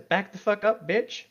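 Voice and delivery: mock tough yell. Joining the joke as Ron, a mock tough yell. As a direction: bark it like a defiant friend sticking up for someone. Playfully voicing Ron's defiance.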